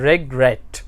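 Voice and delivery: रेगरेट with weight on रेट; two-part रेगरेट, second part stressed; stress on last syllable. Shown as a demonstration. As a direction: keep रेग light, lean on रेट. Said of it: "रेट जो है ना ज़ोर से बोला जाता है".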